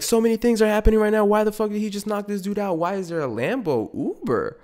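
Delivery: high, fast frantic rambling; panicking girlfriend. Retold or imitated. Girlfriend freaking out in the Lambo, high frantic questions. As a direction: spiral through questions. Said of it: "she'd be like".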